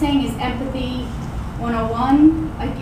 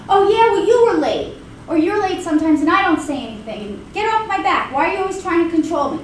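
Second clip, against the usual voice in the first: angry comeback; 3 semitones higher than usual. Acted. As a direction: throw the blame right back, irritated. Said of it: "They're gonna get angry".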